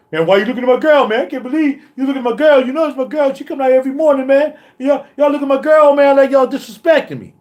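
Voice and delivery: a hint of a whiny jealous guy; mock the jealous guy complaining; whiny punk. Imitating a jealous guy whining at other dudes. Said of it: "That's a punk move".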